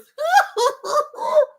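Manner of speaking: high wailing laugh breaking into a cry. Real, not acted. Cracking up at her own joke about crying in a pillow, wailing laugh. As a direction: laugh until it almost turns to sobbing.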